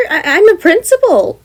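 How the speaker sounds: confused exclaim. Acted. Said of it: "Gem exclaims in confusion".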